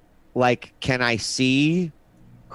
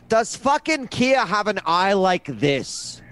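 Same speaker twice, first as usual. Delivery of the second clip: exasperated outburst, pitched up; fed up; 6 semitones higher than usual. Acted. Character confronting the professor, fed-up exasperation. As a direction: demand it, fed up with people. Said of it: "I'm so fed up at this point by people".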